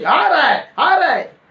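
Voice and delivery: imitating her alarmed shrieking chant; frantic warning. Possessed woman warning the family the pastor is coming, high alarmed cry. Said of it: "ऐसा बोल रही थी".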